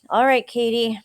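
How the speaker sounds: loud, high exasperated snap; snapped. A narrator's reading. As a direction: bite the words off. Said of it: "Matt snapped".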